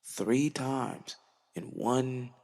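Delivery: drawn out, whispered stress on three times; three times breathed out very slowly; slow hushed emphasis. Real, not acted. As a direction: let it sink in, slow and hushed. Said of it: "God has slowed me down three times".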